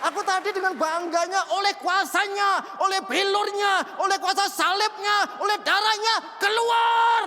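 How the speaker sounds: rising high, loud prayer building to a yell; frenzied shouting. Retold or imitated. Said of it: "Teriak-teriak seperti orang kesetanan saya". (teriakan makin keras hingga memuncak)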